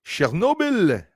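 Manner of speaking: Chernobyl as "sher-NO-beel", high and slow; drawn-out pronunciation. Shown as a demonstration. Host playing with the name for viewers, drawn-out pronunciation. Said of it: "it isn't Chernobyl".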